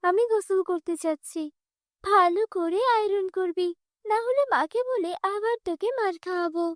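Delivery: put-on bossy spoiled girl. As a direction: order the maid about, scornful.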